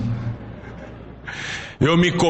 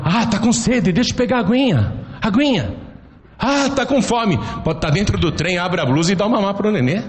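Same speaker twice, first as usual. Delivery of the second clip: put-on mother soothing baby; 3 semitones higher, faster than usual. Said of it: "Ou então".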